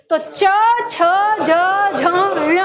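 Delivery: च छ ज झ ण spoken one at a time, tongue held at the palate, with a pause between; palatal consonant demo. Shown as a demonstration. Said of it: "तो जब आप बोल रहे हैं च". (तालु से च छ ज झ ण अलग-अलग बोलकर दिखाना)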